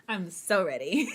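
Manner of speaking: giggling through it; laughing. Real, not acted. Streamer giggling to chat about her big scene. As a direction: laugh out the words, too excited to hold it in. Giggly hype before writing.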